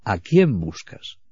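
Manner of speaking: slow, gentle repeat; gentle question. Retold or imitated. Repite la pregunta de Jesús. (pregunta lenta y suave)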